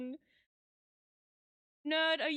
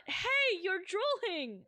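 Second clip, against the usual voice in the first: shocked outburst; 5 semitones higher, slower than usual. Real, not acted. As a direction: yelp at the gross sight. Reacting to character's face.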